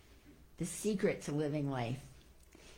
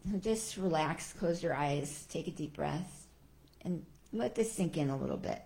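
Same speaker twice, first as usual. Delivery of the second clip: right in your ear; 4 dB quieter than usual. Shown as a demonstration. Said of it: "little prayer I want to end with".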